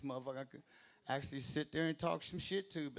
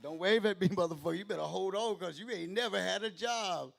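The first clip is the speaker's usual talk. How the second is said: louder retort to a roofer, higher; louder, higher mock rebuke; retold shout; 4 semitones higher, 5 dB louder than usual. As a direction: snap back at the waving guy. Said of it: "I said".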